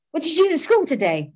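high, stilted attempt at small talk; mock your old high voice questioning a child; imitating an over-pitched parental question. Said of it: "In that voice".

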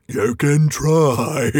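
very slow troll drawl; a lazy, menacing troll; troll Bert. Acted. Bert picking up a skewer, slow menacing troll voice. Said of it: "said Bert, picking up a skewer".

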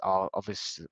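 blocked nose, nasal from a cold. Real, not acted. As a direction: talk through a stuffy nose with a cold. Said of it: "I apologise for my nasally voice today".

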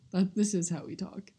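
whispery creaky voice; vocal fry. Real, not acted. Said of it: "vocal fry".

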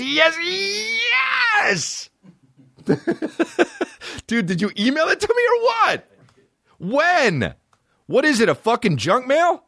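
mock excited squeal. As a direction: shriek it like a giddy fan.

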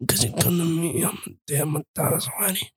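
hushed, raspy mock Godfather. Doing The Godfather for friends, hushed mock mob boss. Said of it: "Godfather, though".

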